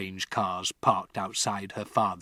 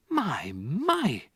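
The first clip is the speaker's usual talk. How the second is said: kindly teacher; 6 semitones higher than usual. A narrator's reading. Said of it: "she said".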